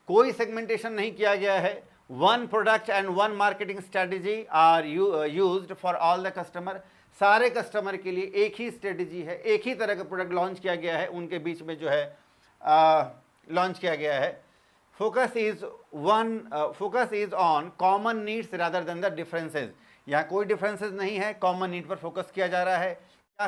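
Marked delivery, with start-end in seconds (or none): 2.1-6.7 very slow, evenly spaced words for note-taking; teacher dictating notes word by word; slow dictation. Acted. Reads English definition as dictation. 15.0-19.7 very slow, evenly spaced words for note-taking; teacher dictating notes word by word; slow dictation. Acted. Reads English definition as dictation.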